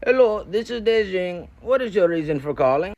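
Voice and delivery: lightly voiced phone agent; hotline agent. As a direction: greet like a bored call-center worker. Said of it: "He goes".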